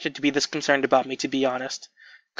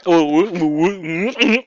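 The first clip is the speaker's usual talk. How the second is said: voice cracking; 3 semitones higher, much slower than usual. Real, not acted. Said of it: "My voice cracked".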